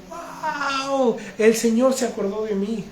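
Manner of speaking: high joyful exclamation, imitating his daughter; excited cry of joy. Daughter telling her father the party moved, overjoyed. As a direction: burst out like a thrilled little girl. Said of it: "mi hija dio el grito en el cielo".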